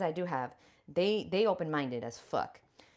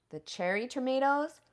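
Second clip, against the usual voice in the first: higher sing-song question; higher, quirky lilt; odd high question; 7 semitones higher, 3 dB louder than usual. Real, not acted. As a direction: toss it up playfully high. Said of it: "I don't know why I said it like that".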